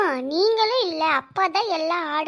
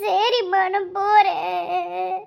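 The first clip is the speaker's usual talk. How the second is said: slow, drawn-out tearful whine; crying; slower than usual. Acted. Child told to go and study, tearfully obeying. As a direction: give in, wailing the words out. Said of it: "அழுகாம போ பூமாரி".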